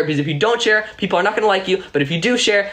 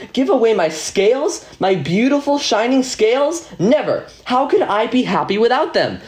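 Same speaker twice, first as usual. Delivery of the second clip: upset little fish; 4 semitones higher than usual. Acted. Rainbow fish refuses, upset.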